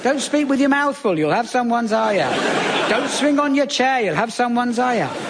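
a lightly voiced fretful mum repeating her warning; fussing mum. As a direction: nag the child like a worried mum. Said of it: "She thought anything could have your eye out".

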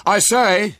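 high, loud, triumphant shout; exultant call. A narrator's reading. William arriving with another pram, exultant call. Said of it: "he called exultantly".

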